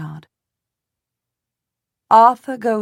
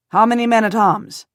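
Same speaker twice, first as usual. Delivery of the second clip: interrupting; 4 semitones higher, 7 dB louder than usual. A narrator's reading. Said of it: "my husband interrupts".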